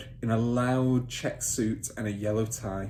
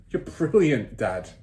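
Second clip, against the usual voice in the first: admiring son; 3 semitones higher, 6 dB louder, slower than usual. Acted. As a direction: gush up at dad. Son praising.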